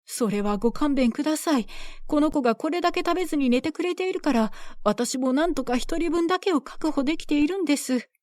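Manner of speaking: lightly voiced anxious mother; pleading mother. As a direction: beg the villagers to spare her.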